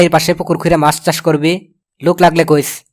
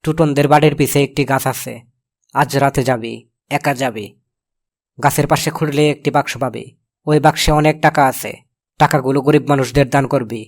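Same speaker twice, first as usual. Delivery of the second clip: lower, measured letter-reading voice; 3 semitones lower, 3 dB quieter than usual. Acted. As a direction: read the secret instructions out, slightly subdued. Uncle reads the ghost's letter. (নিচু গলায় চিঠি পড়া)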